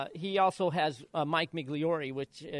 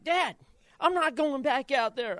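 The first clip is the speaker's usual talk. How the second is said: imitating son crying; 9 semitones higher, 5 dB louder than usual. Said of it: "Dylan come into Barney's crying".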